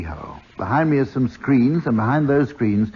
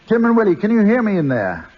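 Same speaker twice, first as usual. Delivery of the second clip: calling out, higher and louder; calling down a hallway; 7 semitones higher, 3 dB louder than usual. Real, not acted. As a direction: call through the wall to them. Calling to team inside cubicle.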